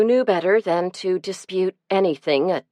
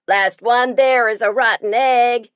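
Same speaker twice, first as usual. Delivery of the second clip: shouted; 6 semitones higher, 5 dB louder than usual. A narrator's reading. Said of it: "shouted Eddie Culpepper".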